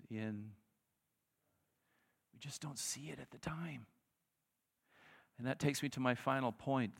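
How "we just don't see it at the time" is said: unvoiced hush; whisper. Real, not acted. Preacher whispering his point to the congregation.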